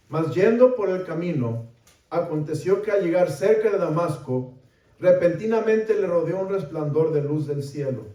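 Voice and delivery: projected, dramatic Bible reading; scripture reading. A narrator's reading. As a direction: read the passage out to the congregation. Reads scripture aloud with raised voice.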